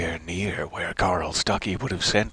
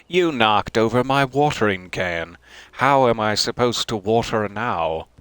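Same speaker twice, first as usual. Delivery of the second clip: louder, hammed-up outrage over a watering can; mock indignant emphasis; 5 dB louder than usual. Gamer scolding the game over a watering can, mock outrage. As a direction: play it as a petty grievance, loud. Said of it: "I put a lot of emphasis on that".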